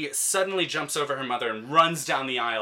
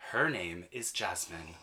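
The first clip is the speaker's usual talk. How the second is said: curt correction; 4 semitones lower, 7 dB quieter, slower than usual. Retold or imitated. Mother curtly correcting him.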